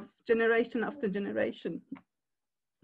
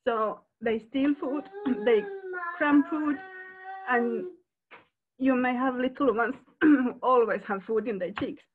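fighting back tears while speaking; tearful. Real, not acted. Foster carer telling the group about hungry children, tearful. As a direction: voice catching with real tears. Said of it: "I don't know why this makes me so emotional".

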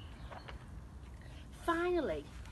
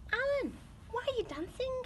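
puzzled question; 14 semitones higher than usual. Acted. Giraffe questions dancing Alan.

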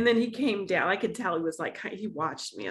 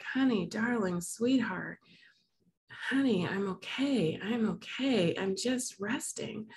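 retold soothing; 3 semitones higher, slower than usual. Voicing mother soothing crying daughter.

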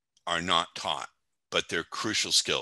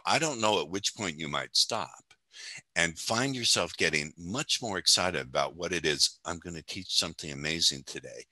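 hypnotic voice; 4 dB quieter than usual. Shown as a demonstration. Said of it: "I also have the hypnotic voice".

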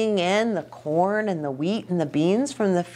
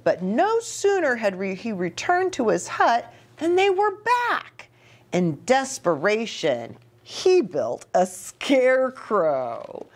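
put-on reading to children; 2 semitones higher than usual. Reads story to children.

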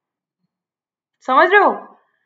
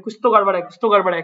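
lower, gentle, affectionate murmur; lovingly; 6 semitones lower, much faster than usual. Retold or imitated. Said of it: "बड़े प्यार से बोल रहे थे".

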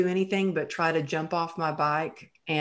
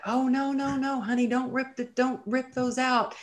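high, cooing mock nurse voice; a sweet, higher nurse voice; nurses soothing; 8 semitones higher than usual. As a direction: coo it like a fussing nurse. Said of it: "And they're like".

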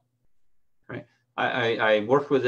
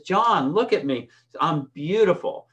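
high and loud, beaming with pride; excited; 5 semitones higher, 4 dB louder than usual. Retold or imitated. Quoting a proud swimmer calling out to her coach, excited. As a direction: burst out proudly, drawing out beautiful. Woman shows off her weight loss.

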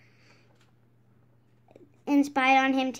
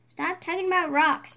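a raised, fed-up yell a little higher; annoyed yell; 4 semitones higher, 4 dB louder than usual. Acted. Squidward yelling at Patrick to drop the rocks, mock yell. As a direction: snap it out, sick of hearing about rocks. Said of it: "yelled Squidward".

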